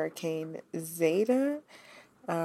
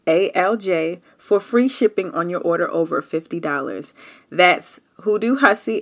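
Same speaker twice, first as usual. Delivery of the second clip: ad read; 5 dB louder than usual. Acted. Reads a sponsor ad.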